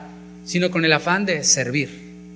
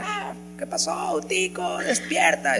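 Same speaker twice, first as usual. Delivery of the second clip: mock alarmed call; 3 dB quieter, slower than usual. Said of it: "A dar voces y a gritar".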